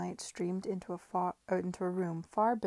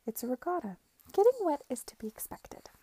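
lightly placating, high and lilting; smooth it over with a high lilt; placatory reassurance, pitched high; 7 semitones higher, 4 dB louder than usual. A narrator's reading. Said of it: "said Mary in her usual placated, placatory tones".

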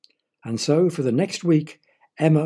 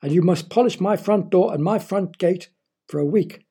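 mild snap; 5 semitones higher than usual. Acted. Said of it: "snapped Mister Smith".

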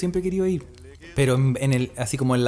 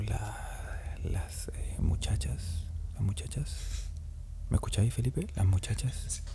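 secret whisper; 5 semitones lower, 10 dB quieter, slower than usual. Real, not acted. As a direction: hush it so nobody hears. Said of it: "para que no me escuchen".

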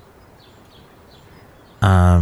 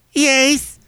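very high, put-on falsetto lady; squeaky guest character voice, hammed-up; a shrill-ish madam greeting the host with high falsetto; high silly lady voice. Character answers.

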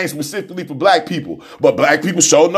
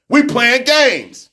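slow intense; 5 semitones higher, much slower than usual. Real, not acted.

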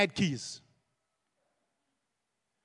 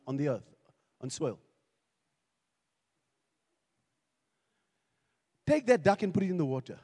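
much softer, lower intimate sermon voice; soft preaching; 8 semitones lower, 9 dB quieter than usual. Real, not acted. Pastor speaking tenderly to the congregation, soft. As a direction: draw them in close and gentle.

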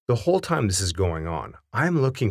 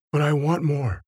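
whiny adult; 5 semitones higher than usual. Acted. P U whines for bread.

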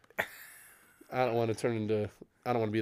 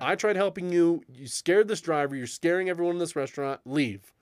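raised-pitch mock telling-off, volume held back; retold yell; 5 semitones higher than usual. Manager tells off man who scared the driver, retold yell. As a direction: scold firmly without really shouting. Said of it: "and then I yell at him".

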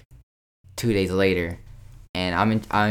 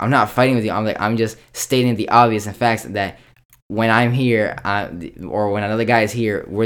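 raised retold reply; 2 semitones higher, 5 dB louder than usual.

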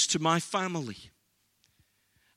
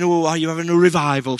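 a quick teasing jab, a bit louder and fast; mocking mum; 2 semitones lower, 5 dB louder, faster than usual. Mum teasing her son about his faith, mock. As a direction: make fun of him, quickly. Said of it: "She was making fun of me".

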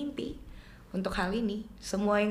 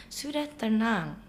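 calming father; much slower than usual. Retold or imitated. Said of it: "papa bilang".

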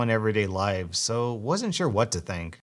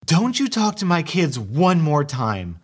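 angry wife; 4 semitones higher, 4 dB louder than usual. Acted. Wife snaps at entitled mother.

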